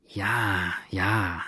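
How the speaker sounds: a thoughtful, inward ja ja; musing. A narrator's reading. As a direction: drift off in thought as you answer. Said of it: "erwiderte der Mulatte sinnend".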